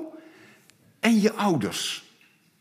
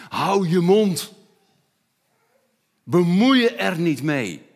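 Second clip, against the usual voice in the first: bot afkappend, laag begonnen; geïrriteerde meute; 5 semitones lower than usual. Acted. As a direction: snauw hem af als de meute. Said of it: "De meute zegt". (de meute snauwt de blinde toe)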